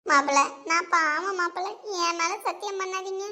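a scared aunt pleading, babbling her confession; lightly voiced fearful mother-in-law; frightened aunt. Frightened aunt confessing to her son-in-law, pleading and babbling.

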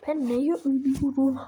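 loud exasperated cry at the game; angry gamer outburst; frustrated yell. Real, not acted. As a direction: shout it out in disbelief. Frustrated gamer dying again.

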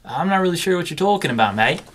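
a light put-on Australian accent, a bit fast; fake Australian accent. Back from a trip, denying to his friend, light Australian accent. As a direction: lightly play the Aussie, denying it all. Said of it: "you picked up an accent?".

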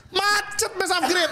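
laughing whine. Real, not acted. Laughing at a stuck upgrade.

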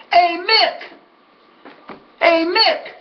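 high-pitched mock holler, held back in volume; retold yell. Winner hollers to his rival across the track, retold yell. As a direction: call out to someone far down the track. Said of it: "I yelled to him".

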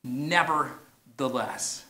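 drawn-out "Nevertheless" in unison; slow unison. Shown as a demonstration. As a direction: lead the crowd slowly through "Nevertheless". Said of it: "say that with me".

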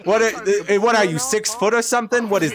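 high, incredulous complaint; high-pitched exasperation; indignant protest. Real, not acted. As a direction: protest at being outreached. Protesting friend holds goose out of reach.

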